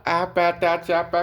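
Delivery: आ, पा, ता, चा, पा as meaningless syllables; baby babble. Retold or imitated. Teacher imitating a fluent meaningless baby, babbling आ, पा, ता, चा, पा. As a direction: babble आ, पा, ता, चा, पा like an infant. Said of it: "कुछ भी बोलते रहता है".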